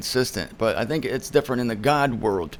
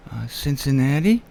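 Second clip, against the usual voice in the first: unsure answer. Retold or imitated. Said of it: "answer with a question".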